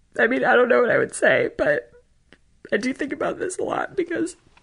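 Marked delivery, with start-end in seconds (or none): 0.2-1.5 close to tears, voice breaking, higher. Answering a question about facing a hysterical parent, close to tears. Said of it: "I'm gonna cry thinking about it".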